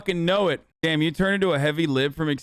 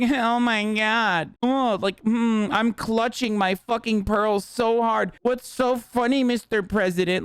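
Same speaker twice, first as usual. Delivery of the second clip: higher, slow, mock-scandalized gasp; pearl-clutching mock reporter; 4 semitones higher, slower than usual. Streamer mocks a reporter feigning shock, slow and higher. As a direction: clutch your pearls and whine the question slowly. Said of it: "But then you're like".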